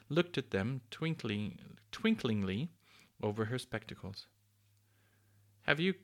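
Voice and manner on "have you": high, lightly cooing cuckoo; a hint of a cooing lady cuckoo; soft cuckooing voice. A narrator's reading. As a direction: lift it into a gentle bird-like coo. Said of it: "she asked in a soft, cuckooing sort of voice".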